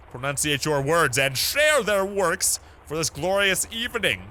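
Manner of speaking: no mumbling, stretch the key words; over-enunciated reading. Acted. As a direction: read it out grandly, every word pronounced. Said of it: "I guarantee you this dude doesn't mumble".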